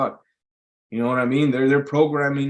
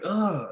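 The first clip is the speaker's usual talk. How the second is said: higher-pitched mock sick "ugh"; imitated zombie groan; 7 semitones higher, 4 dB quieter than usual. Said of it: "like a zombie or sick".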